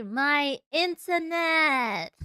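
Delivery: drawn-out, loud complaint; exasperated shout. Real, not acted. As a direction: wail it out slowly. Complaining about finicky internet.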